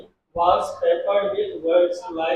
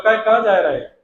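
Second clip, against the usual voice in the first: louder Bhind-accented question, falling at the end; lightly put-on Bhind Hindi, pushed louder; Bhind dialect; 2 semitones higher, 6 dB louder than usual. Shown as a demonstration. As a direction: ask it forcefully in a Bhind accent. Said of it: "Bhind पहुँच जाओ".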